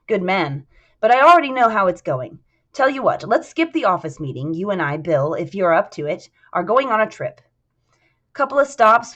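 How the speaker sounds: lightly voiced genial boss, lively pitch; a touch of hearty confidence; cheerful boss Ryan. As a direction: propose an outing with easy authority. Ryan briskly invites Bill along.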